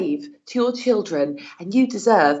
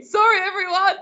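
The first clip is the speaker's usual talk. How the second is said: laughing apology; 11 semitones higher, 3 dB louder than usual. Real, not acted.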